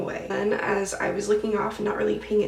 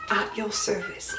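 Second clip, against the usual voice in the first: put-on cute British accent; 4 dB quieter than usual. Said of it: "with his little cute little accent".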